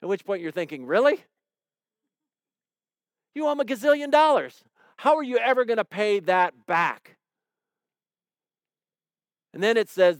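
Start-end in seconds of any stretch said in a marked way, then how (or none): 0.9-7.2 higher, quick and incredulous; incredulous disbelief. Retold or imitated. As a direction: react as if the sum is absurd. Listener's incredulous imagined thought.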